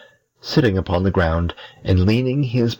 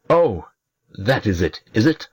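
sneering imp; 3 semitones higher than usual. Acted. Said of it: "said the other".

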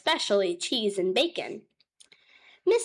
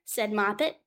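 plain reading voice

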